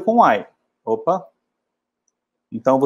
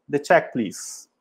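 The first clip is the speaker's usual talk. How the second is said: The check, please said slowly with weight on check; The check, please, devagar; slow model phrase; 4 dB quieter, much slower than usual. Shown as a demonstration. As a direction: spell it out slowly for students. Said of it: "você fala".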